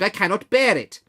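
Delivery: high, loud desperate cry; exclaimed. A narrator's reading. Scrooge cries to the ghost to take him away, loud and desperate. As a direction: burst out begging. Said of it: "Scrooge exclaimed".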